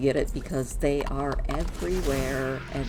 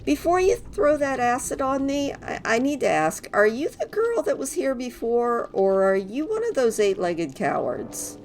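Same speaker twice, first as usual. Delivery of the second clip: high, loud cheerful elf voice; bouncy, relieved little helper; christmas elf; 7 semitones higher, 5 dB louder than usual. Acted. Voices freed NPC Gidwin.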